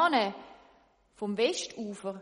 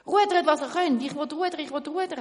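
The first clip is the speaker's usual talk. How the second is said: loud, high urging to row; urgent shout; 7 semitones higher, 9 dB louder than usual. Acted. Tailor urging the others to row, loud shout. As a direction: drive the rowers on. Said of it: "Schneider gerufen".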